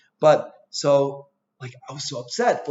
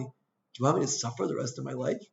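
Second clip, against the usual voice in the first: calmly; 6 dB quieter than usual. Retold or imitated. Telling his wife over the sandwich, calm and even. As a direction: ask it gently, as if it is reasonable. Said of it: "I said it very calmly".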